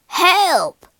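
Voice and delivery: panicked pirate yell; crying out. Acted. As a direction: call out for help in the fog. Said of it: "cried the pirate".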